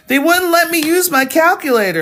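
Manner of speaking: high, loud mock complaint of a frustrated student; student grumbling that the calculator was banned, mock whine; whiny student. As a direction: whine it like a test-taker who got caught out. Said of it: "they're like".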